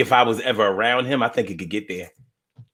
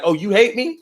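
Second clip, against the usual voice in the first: hurt parent; 7 semitones higher than usual. Retold or imitated. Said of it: "they get all emotional".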